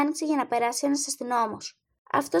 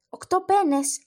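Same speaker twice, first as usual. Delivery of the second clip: indignant; 6 semitones higher, 4 dB louder, slower than usual. Acted. Woman indignant at low offer.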